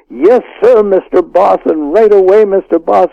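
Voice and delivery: a lightly voiced bowing waiter; fawning staff. Staff fawning over gangster's guest.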